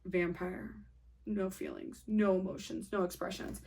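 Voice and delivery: emotionless vampire. Acted. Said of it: "They're emotionless".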